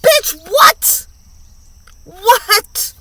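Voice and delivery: high, loud incredulous squawk; mock shocked. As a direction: shriek it in fake disbelief. Mock outrage exclamation.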